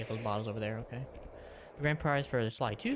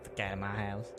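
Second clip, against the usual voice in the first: put-on New Jersey accent; 2 semitones lower, 3 dB quieter than usual. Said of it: "doing that in a New Jersey accent".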